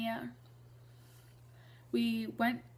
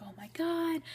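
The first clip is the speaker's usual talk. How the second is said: high-pitched imitation of a thrilled friend; retold freak-out; 8 semitones higher than usual. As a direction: mimic an excited best friend's gasped reaction. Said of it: "she freaked out".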